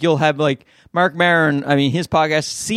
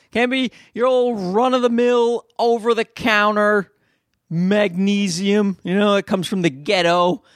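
mocking; 3 semitones higher than usual. Mocking wife's fancy magnesium.

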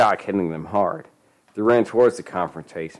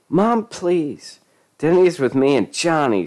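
high-pitched agitated protest; screech; 8 semitones higher than usual. A narrator's reading. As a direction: screech at mother in exasperation. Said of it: "she screeched".

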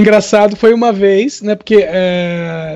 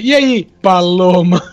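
slow, savoured taunt; retold teasing greeting; 3 semitones lower, slower than usual. Teller greets his classmate with the recovered nickname, teasing. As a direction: draw out the nickname slowly to tease.

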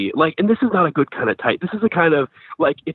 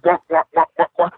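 imitated wah wah sound; mock porn music; 2 semitones higher, faster than usual. Retelling co-star's wah wah noises, imitated sound. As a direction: hum a cheesy porn soundtrack. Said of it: "he's going".

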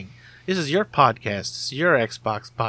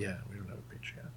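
hushed whispered aside; whispering; 3 semitones lower, 18 dB quieter, much faster than usual. Acted. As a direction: whisper it like a secret. Whispered confession.

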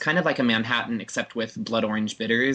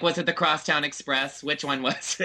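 mock puzzled; 4 semitones higher than usual. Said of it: "I'm like".

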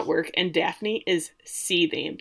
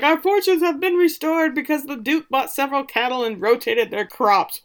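higher hammed-up farmer voice; cheery farmer; 6 semitones higher than usual. Farmer unloading pigs, higher hammed-up cheerful voice. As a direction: play a chirpy rustic farmer. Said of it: "he's like".

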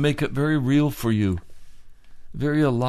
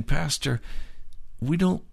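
mock objecting listener; 6 semitones higher than usual. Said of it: "some of you are saying".

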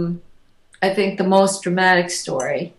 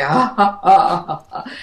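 evil laugh. Retold or imitated. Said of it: "laughing like evil around the ceiling".

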